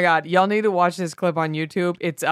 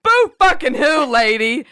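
high loud start, then slow sarcasm; mock sympathy; 3 semitones higher, 3 dB louder than usual. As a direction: scold with fake pity, drawn out. Mocks the complaining actress.

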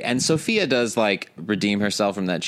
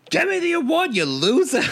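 high-pitched mock demand; hammed-up imitation of a sitcom insult; imitated character outburst. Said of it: "I like when she's like".

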